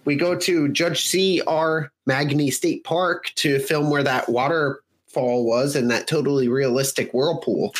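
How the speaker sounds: put-on a Fargo-style Minnesotan accent that slips British by the end. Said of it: "It started out like Fargo, but ended more British".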